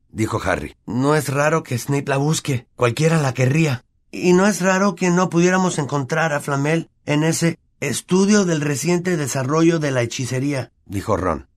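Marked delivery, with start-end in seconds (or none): 0.9-10.7 Ron's voice. Acted. Ron reasons aloud.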